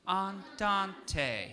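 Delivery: "Andante" at an even walking pace; medium speed. Shown as a demonstration. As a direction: say "Andante" neither fast nor slow. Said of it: "we'll say it at a very medium speed".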